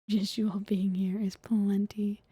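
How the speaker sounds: slow sincere whisper. Acted.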